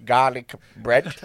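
put-on lightly done Bolton accent; slow Bolton drawl; Peter Kay voice. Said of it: "it's Peter Kay".

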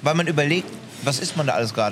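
talking with a mouthful of food; words round a bite; mouth full. Real, not acted. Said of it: "dass wir mit vollem Mund sprechen".

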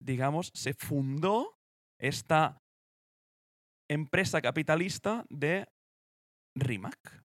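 presenter reading a timeline, rising at phrase ends; deliberate documentary-style read; scripted read-aloud. Acted. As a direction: read out the history in measured phrases. Reads out the company history.

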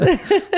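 quick high laugh at the praise; laugh, flattered; short laugh. Real, not acted. Laughs at compliment on English.

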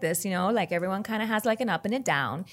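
lightly demonstrated South Texas lilt; South Texas accent, melody going up and down. Shown as a demonstration. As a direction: let the South Texas tune rise and dip. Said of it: "we kinda all talk like this".

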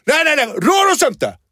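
high, slow, loud frightened cry; hammed-up panicked kid scream. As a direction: back away shrieking at the man. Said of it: "Bara de skriker på mig".

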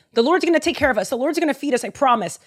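a man being strong for the woman; reassuring Elijah. Retold or imitated. Elijah promises the widow, lightly voiced reassurance. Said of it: "he's saying".

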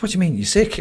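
imitating a wife's puzzled, high-pitched questions; mock-concerned query, pitched well up; puzzled questioning. Wife on the phone to husband who says he's dying, puzzled questioning.

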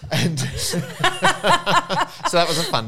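laughing while talking; words broken by laughter. Real, not acted. Laughing through a dark story.

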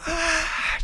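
high imitated crying wail; mock sobbing wail. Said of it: "yo llorando en la cama". (quejido agudo imitando el llanto)

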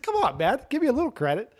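a touch of a teasing Tom Hanks; lightly voiced Tom Hanks. Tom Hanks teasing Ken Jeong, lightly voiced plea. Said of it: "He said".

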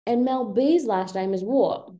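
curious mock British question; playful British query; fake British accent. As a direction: ask as a put-on Brit. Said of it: "with the British accent".

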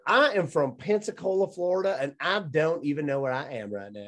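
Florida lady quote. Retold or imitated. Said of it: "she said".

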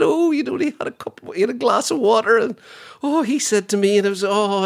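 high, fluttery put-on gossiping voice; hammed-up scandalised society gossip; mock gossip voice. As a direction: send up the royals' petty fuss. Continues royal mock voice.

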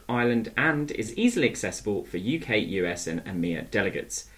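smooth sponsor read for a conference centre. Acted. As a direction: read the sponsor message like a radio ad.

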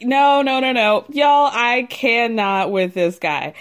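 mild mock yell, slowing at the end; retold screaming. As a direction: imitate someone yelling in exasperation, half-strength. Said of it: "Screaming like".

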